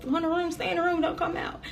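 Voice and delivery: retold tearful order. Mother sending her kids to their room, mock tearful. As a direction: retell a tearful plea in a high voice. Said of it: "I'm crying and stuff".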